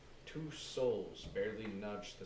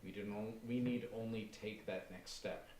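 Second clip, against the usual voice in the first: zealous fervor; 3 dB louder than usual. Acted. Aaron fervent vision.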